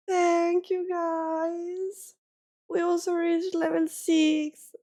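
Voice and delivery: grateful and close to crying; holding back tears. Real, not acted. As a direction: say thanks through welling tears. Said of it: "not to cry anymore".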